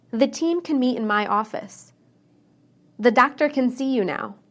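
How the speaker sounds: "can" said quick with a short, light A; "can" reduced, its A clipped short. Shown as a demonstration. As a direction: keep the A in "can" brief and unstressed. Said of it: "pay close attention to the word can".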